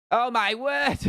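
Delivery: attempted Northern impression, high and drawn out; half-joking exclamation in a Manchester accent; high-pitched, badly faked Manchester voice; Bisping. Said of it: "I can't do the Bisping impression".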